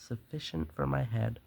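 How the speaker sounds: dramatic, measured storyteller's read; story narration. A narrator's reading. Murderer confesses his careful nights to the listener, story narration. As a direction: read the tale with relish.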